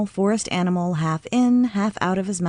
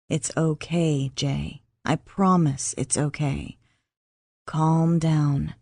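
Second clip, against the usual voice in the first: soothing; 3 semitones lower, slower than usual. Acted. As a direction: ease her down gently. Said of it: "he soothed".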